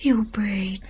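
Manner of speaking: breathy hushed whisper of his name. Acted. Girlfriend pleading in a whisper to her fiancé.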